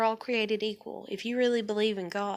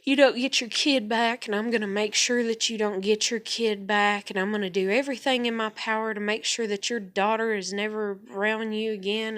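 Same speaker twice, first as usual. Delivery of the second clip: mildly raised, rapid-fire imitated tirade; mimicked angry rant. Retelling how someone went off on her, mock angry rant. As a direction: mimic someone going off on you. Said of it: "she just went off on me".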